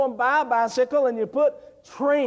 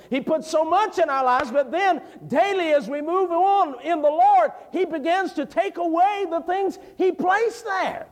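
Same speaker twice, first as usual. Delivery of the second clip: raised, climbing preacher's cry; preaching at full force; 7 semitones higher than usual. Acted. Preacher lifting the congregation about losing props, in a raised preaching voice. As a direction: preach it out to the whole church.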